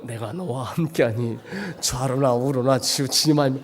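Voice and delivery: calm God voice. Retold or imitated. Voicing God.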